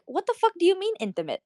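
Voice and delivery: high, quick, startled comeback; retold incredulity. Retells own startled reaction to friend.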